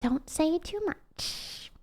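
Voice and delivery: soft, slow pleading; scared plea. Retold or imitated. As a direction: beg under your breath. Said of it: "I get scared and I'm like".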